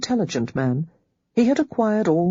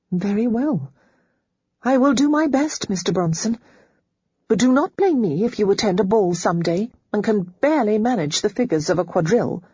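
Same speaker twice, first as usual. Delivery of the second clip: put-on lightly raised, prim young lady voice; a governess laying out lessons, a little higher; Holly's voice; 5 semitones higher than usual. A narrator's reading. Holly lists lessons for Bronson, primly higher.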